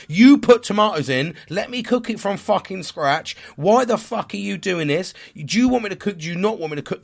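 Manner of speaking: reliving the blow-up at his wife, shouting; angry shouting. Retold or imitated. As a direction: yell it in frustration, voice up. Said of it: "the first shouting that I've done".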